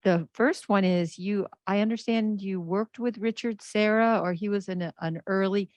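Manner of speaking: muffled behind a mask; talking through a mask; through a face mask. Real, not acted. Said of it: "with my mask on".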